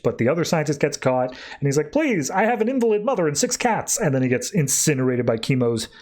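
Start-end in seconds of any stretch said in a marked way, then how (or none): 1.9-4.0 higher-pitched, hammed-up begging; mock pleading. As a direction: plead for your life, played for comedy. Caught scientist begging for life.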